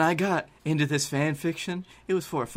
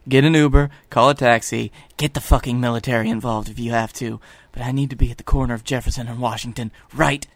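urgent demand; 5 dB louder than usual. Acted. Blake urgently demands a ride.

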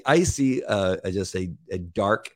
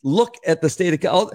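incredulous rant; 13 semitones higher than usual. Retold or imitated. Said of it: "And you go".

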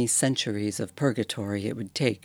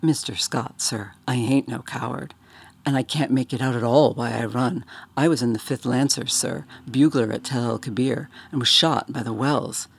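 uneasy Cockney bellhop; 4 dB louder than usual. Acted. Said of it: "flushed with embarrassment and smiled uneasily".

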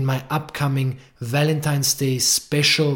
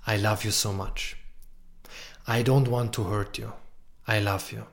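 vulnerable example. Shown as a demonstration.

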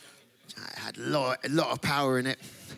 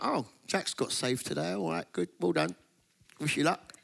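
soft, bored mock church voice; mock indifference; 5 dB quieter than usual. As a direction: shrug it off like a dull congregation. Mocking unenthusiastic church.

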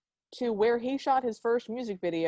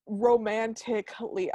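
slow, drawn-out distaste; grudging, dragged-out syllables; pained reluctance; slower than usual. Real, not acted. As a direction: force the word out as if it hurts. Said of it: "Ah, hurts to say".

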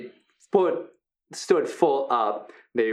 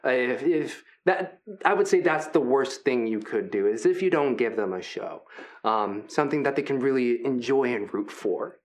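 friendly hulking Brutus. Acted. Big gentle wrestler Brutus welcoming the new fighters, upbeat. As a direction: play the big guy as sweet and encouraging.

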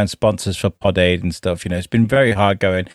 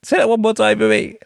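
polite request; 11 semitones higher than usual. Retold or imitated. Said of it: "too proud ... by saying".

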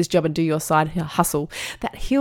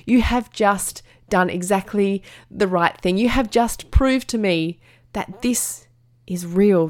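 proud, emphatic praise. Retold or imitated. Proud mum praising son, slowly.

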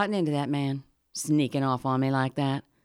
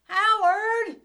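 high, carrying call across the yard; calling out for Howard; 13 semitones higher, much slower than usual. Acted. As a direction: call out into the dark for him.

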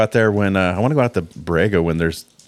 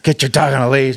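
mock scold; 5 semitones higher than usual. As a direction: nag like an uptight park-goer.

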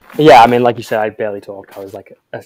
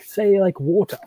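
much higher teasing demand to say "water"; mock kids teasing; 9 semitones higher, slower than usual. Guest imitating classmates who wanted to hear his accent, teasing. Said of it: "they'd be like".

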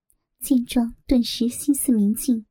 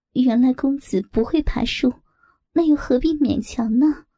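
giggling through the words; barely holding back laughter; suppressed laugh. Acted. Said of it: "忍住笑". (忍着笑说)

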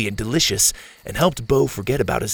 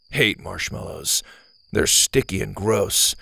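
a hint of a moody loner; sullen boy voice; 2 semitones lower than usual.

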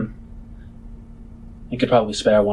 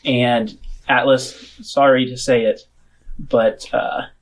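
measured scene-setting with drawn-out phrases; game master narration; slower than usual. Acted. Game master walks players into the wrecked bar, measured narration. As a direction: set the scene for the players, lingering on details.

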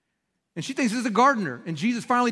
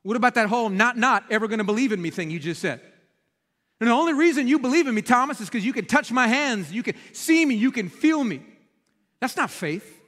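sarcastic paraphrase; 2 semitones higher than usual. Retold or imitated. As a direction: needle Thomas for his convenient faith. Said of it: "And Jesus says".

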